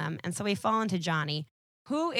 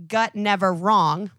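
slow, louder caveman-style grunt talk; caveman quote; 7 dB louder, slower than usual. Retold or imitated. Podcaster quoting Ben Grimm's caveman line. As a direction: drag it out like a simple brute. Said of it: "That is a quote".

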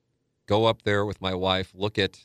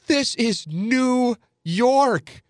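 mock yell, pitched way up and dragged out; imitating a screaming agent; much slower than usual. Agent berating him on the phone, mock high-pitched yell. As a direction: squeal it like an outraged agent. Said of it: "he just starts screaming at me".

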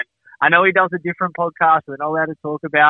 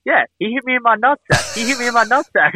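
higher, mock complaining; imitating A-Ray; 6 semitones higher than usual. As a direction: mimic the friend's repeated gripe. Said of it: "he's just like".

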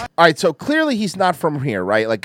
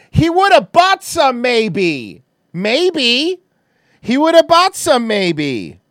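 mocking repetition; 4 semitones higher, much slower than usual. Streamer quoting the shopper's excuse to viewers, mocking. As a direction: echo him in high-pitched mock disbelief. Mocks clip man's words to viewers.

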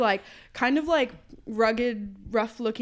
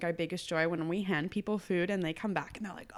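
usual speaking voice

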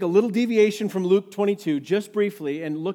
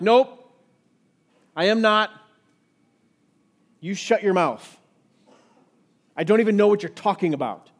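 escalating denial. Retold or imitated. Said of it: "It starts short and like".

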